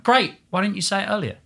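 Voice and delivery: chirpy American director, lifted high; Stro impression. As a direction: mimic the director's eager delight. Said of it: "She was like".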